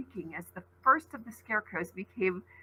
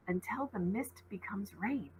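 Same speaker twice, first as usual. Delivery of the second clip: breathy whisper, barely there; whispered thought; 10 dB quieter than usual. A narrator's reading. Ollie whispering a thought to herself, hushed. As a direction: whisper the words to yourself.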